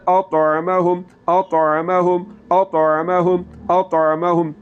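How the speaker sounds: اطعمہم repeated with the ain from the throat; correct ain. Shown as a demonstration. Teacher repeats correct اطعمہم for students to copy. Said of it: "یہ لفظ ٹھیک ہے".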